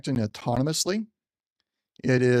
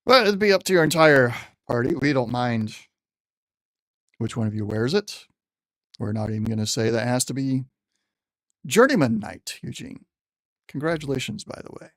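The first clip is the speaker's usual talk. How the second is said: general's voice. Acted. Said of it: "trying to use the general's voice".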